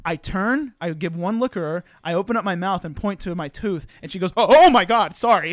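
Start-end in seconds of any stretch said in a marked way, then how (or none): 4.4-5.5 loud, high startled gasp into apology; imitated shocked outburst; retold horrified shock. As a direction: act out recoiling and apologizing. Girl shocked by missing tooth.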